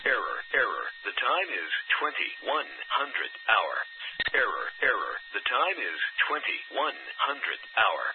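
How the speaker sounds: synthetic voice reading flatly; robotic error message. Real, not acted. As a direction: machine announcement, evenly paced. Automated repeater error announcement.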